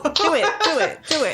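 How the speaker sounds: loud laughing do it do it; egging the narrator on, loud; eager urging. Real, not acted. Player loudly urging the narrator to try the accent.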